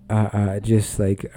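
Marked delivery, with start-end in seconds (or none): 0.1-0.3 long unimpressed sigh, imitating God; weary divine sigh. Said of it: "God's like".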